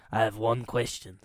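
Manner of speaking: put-on weak, half-hearted Russian accent; a bad Russian accent, barely there. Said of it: "my Russian accent is so bad".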